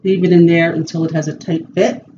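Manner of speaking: speaking around mouth guard; muffled through bitten guard; talking with mouthguard in. Real, not acted. Seen 1: Boil-and-bite guard fitted in mouth from -7s, removed about +6s.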